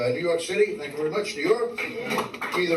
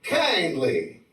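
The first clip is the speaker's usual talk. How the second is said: lightly Southern thank-you, drawn out; mock a Southern pleasantry, falling on "kindly"; Southern expression; 3 semitones higher, much slower than usual. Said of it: "some dumb expressions in the South".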